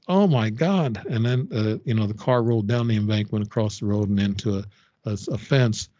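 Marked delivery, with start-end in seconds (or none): 0.1-1.0 retold scream. Woman who saw the car run over him, mild mock scream. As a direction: imitate a horrified onlooker's cry, pitched up. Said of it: "She screamed, and she goes".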